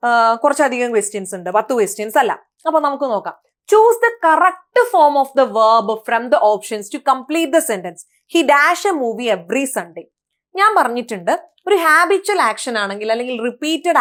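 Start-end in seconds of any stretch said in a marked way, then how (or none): 3.7-8.0 reads the question out slowly and evenly; slow question reading. Shown as a demonstration. Teacher reading an exam question aloud, slow and clear. 8.3-10.0 reads the question out slowly and evenly; slow question reading. Shown as a demonstration. Teacher reading an exam question aloud, slow and clear.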